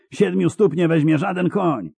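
high, exultant cry; triumphant high-pitched shouting; triumphant yell. A narrator's reading. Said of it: "wrzasnął triumfalnie Mun".

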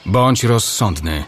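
slow, measured warning. Acted. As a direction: say it slowly and evenly. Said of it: "Powiedział wolno białowłosy elf".

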